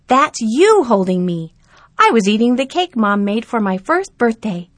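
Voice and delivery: put-on a boy showing his birthday photo to grandpa; lightly voiced young boy.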